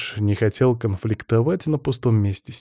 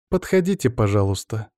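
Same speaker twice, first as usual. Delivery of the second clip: chirping. Acted. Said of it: "прощебетала княгиня".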